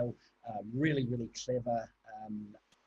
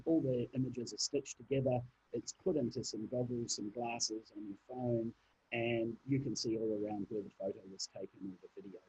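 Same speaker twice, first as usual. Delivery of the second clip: muffled, far from the mic. Real, not acted. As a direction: speak as if through a cloth. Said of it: "you're a little bit muffled".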